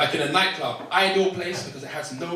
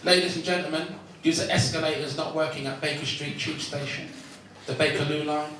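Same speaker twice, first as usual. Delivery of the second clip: announcer. Retold or imitated. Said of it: "heard this one".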